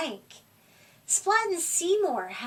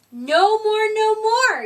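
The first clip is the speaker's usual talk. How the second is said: loud, high, desperate "no more"; yelling; 6 semitones higher, 8 dB louder than usual. A narrator's reading. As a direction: shout it out, fed up. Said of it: "yelled Seymour".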